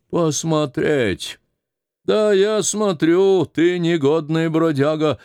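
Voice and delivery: put-on high, slow, scornful old woman. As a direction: throw the word back at him. Старуха гневно отвечает. (старуха гневно и медленно, высоким голосом)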